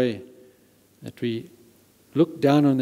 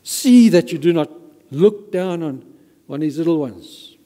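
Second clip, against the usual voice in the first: "See" pushed up and louder, an urgent warning; stress on see; 3 semitones higher, 6 dB louder than usual. Shown as a demonstration. Preacher reading the verse to the congregation, stressing "See". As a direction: lean on "See" like a firm command. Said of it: "notice the word see".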